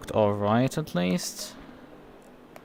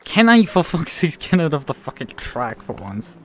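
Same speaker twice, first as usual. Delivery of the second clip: higher, louder exasperated outburst; frustrated outburst; 4 semitones higher, 4 dB louder than usual. Real, not acted. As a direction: blurt it out, fed up with the traffic. Frustrated racer stuck behind traffic.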